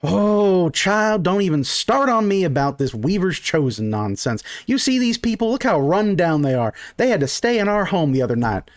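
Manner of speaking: put-on a mother brushing off her child's silly dream; exasperated mom. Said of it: "her mom goes".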